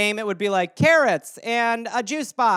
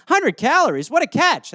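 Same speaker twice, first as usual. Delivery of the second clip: tag; 5 semitones higher, 3 dB louder than usual. Retold or imitated. Quotes pleased snack buyer.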